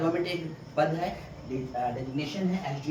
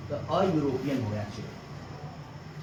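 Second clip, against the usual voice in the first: slow, lower, spelling out अ यूरोपियन; slow model answer; 3 semitones lower, much slower than usual. Shown as a demonstration. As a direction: model the phrase अ यूरोपियन slowly for the class. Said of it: "ए लगाना है".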